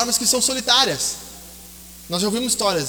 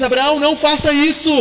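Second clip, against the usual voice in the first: voice from heaven; 5 semitones higher, 4 dB louder than usual. Acted. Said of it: "do céu uma voz diz".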